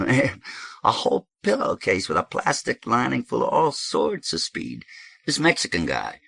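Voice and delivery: high, excitable character telling a tale; high-pitched, lively bragging; animated dope host. Acted. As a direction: rattle on high, stressing the amounts. Voices Thirteen in story.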